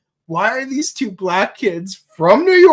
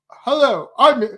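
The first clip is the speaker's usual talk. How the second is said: mock very American accent; 3 semitones higher than usual. Visiting dad greeting in Japan, very American accent. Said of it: "with a very American accent".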